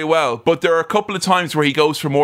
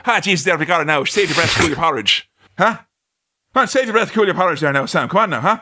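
put-on Irish traveller accent; faster than usual. Making fun of Brad Pitt's film role, Irish traveller accent. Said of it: "making fun of Brad Pitt going".

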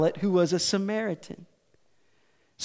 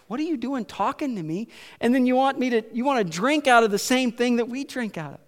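indignant, slightly higher-pitched challenge; affronted mock questioning, pitched up; acted animosity; 4 semitones higher, faster than usual. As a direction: voice someone offended at being spoken to. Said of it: "you've got this animosity".

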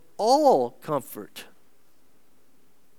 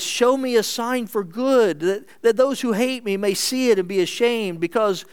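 raised, earnest scripture prayer; higher-pitched prayer reading; 6 semitones higher, 4 dB louder than usual. Acted. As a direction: read it out as a fervent plea. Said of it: "David prays".

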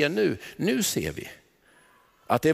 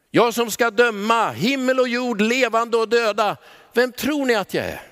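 commanding Jesus; 5 semitones higher than usual. Acted. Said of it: "så vill han plötsligt stanna och säga".

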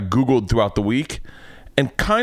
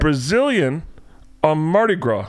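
awkward patient; 4 semitones higher than usual. Retold or imitated. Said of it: "No, not like a fucker".

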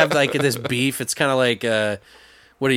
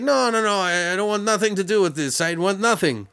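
high, mildly sulky refusal; sulking; 5 semitones higher than usual. Retold or imitated. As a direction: pout and refuse. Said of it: "He's like".

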